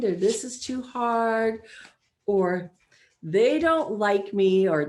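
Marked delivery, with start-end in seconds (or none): 0.2-1.6 mopey thought. Retold or imitated. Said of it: "thinking these thoughts like". 3.2-4.7 mopey thought. Retold or imitated. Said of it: "thinking these thoughts like".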